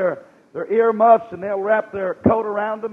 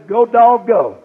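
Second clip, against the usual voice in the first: mock team cheer; 2 semitones higher, 9 dB louder, slower than usual. Preacher quoting a bulldog team sign, mock cheer. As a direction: belt out the slogan like a fan.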